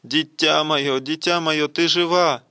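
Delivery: acted breathless-with-joy outcry; spluttering with emotion. A narrator's reading. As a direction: tumble into overjoyed repeated exclamations. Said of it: "захлёбываясь словами на ходу".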